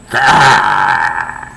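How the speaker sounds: drawn-out "gah" roar; mock roar. Getting up in his face, angry mock roar. Lunging at him in anger.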